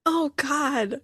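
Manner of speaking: laughing through tears. Real, not acted. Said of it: "I'm just gonna be a pile of tears".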